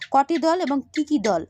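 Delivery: slow, deliberate "কটি দল এবং কী কী দল" with each word set apart; slow exam question. Shown as a demonstration. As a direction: read the exam question out slowly so students catch each word. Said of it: "এরকম তোমাদের প্রশ্ন করবে".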